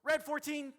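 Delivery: high, loud, run-together shout; rushed loud call. Shown as a demonstration. Referee calling a foul too hastily, high and loud. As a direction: blurt it out in one burst. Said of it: "You didn't hear me also go".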